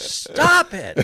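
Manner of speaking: shrill, fed-up, very high, loud scream. Recalling sitting at an intersection in his convertible, having had enough; retelling a scream. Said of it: "I screamed out loud".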